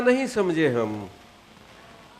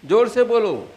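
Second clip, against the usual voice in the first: raised, louder voice; calling out; 2 semitones higher, 5 dB louder than usual. Real, not acted. Tell the questioner to speak up, calling out. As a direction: call out to be heard.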